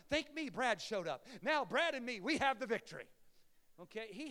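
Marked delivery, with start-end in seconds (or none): 0.1-3.1 slightly louder playful mock Jesus; a hint of smug Jesus. Pastor joking how Jesus might thank himself, lightly voiced. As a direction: play Jesus lightly, cheeky and pleased. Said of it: "'Cause it's Jesus, and he is God".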